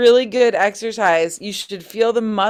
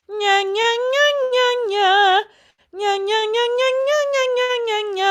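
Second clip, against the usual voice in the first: nasal twang, lower. Shown as a demonstration. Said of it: "Let's bring it down a little bit".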